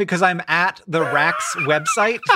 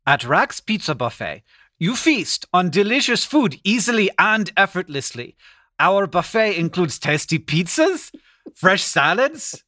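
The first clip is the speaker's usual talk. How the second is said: put-on careful second stab at a German accent; attempted German accent. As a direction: read it in a shaky-grasp German accent. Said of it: "read it to you in a German accent".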